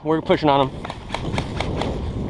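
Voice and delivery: slow hushed whisper. Real, not acted. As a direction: breathe it low and slow. Quietly pushing on enemy.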